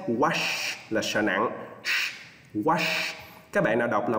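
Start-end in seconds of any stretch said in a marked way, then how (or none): 0.1-0.7 wash, slowly, ending in a long sh; clear final SH. Shown as a demonstration. Teacher models wash slowly, long final SH. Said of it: "chúng ta phải đọc cho chính xác". 2.5-3.1 wash, ending in a long sh; clear final SH. Shown as a demonstration. Teacher repeats wash for students, clear final SH. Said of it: "chúng ta phải đọc cho chính xác".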